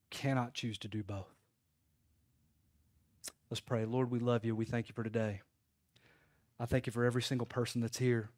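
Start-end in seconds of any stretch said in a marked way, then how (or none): 3.5-8.3 soft, low prayer voice; closing prayer. Real, not acted. Pastor leading the church in prayer, soft and low. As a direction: talk quietly and sincerely to God.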